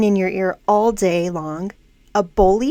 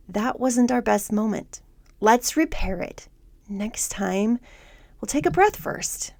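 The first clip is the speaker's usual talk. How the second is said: soft, kind and patient, easing toward a whisper; gentle coach voice; 5 dB quieter than usual. Acted. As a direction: reassure a struggling mom gently. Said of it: "supportive coach voice says".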